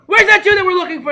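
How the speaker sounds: high, loud searching shouts; Cossack shouting. Retold or imitated. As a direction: demand it like a raider hunting.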